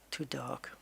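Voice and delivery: soft whisper trailing off. Real, not acted. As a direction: breathe it out as a private doubt. Musing over colour choice.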